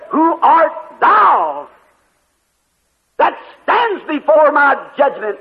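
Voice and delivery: slow, weighty voice from the judgment throne; great, deep voice. Retold or imitated. The judge challenges the dreamer at the throne, great slow voice. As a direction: draw it out slowly and solemnly, like a great judge. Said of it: "a great, deep voice said".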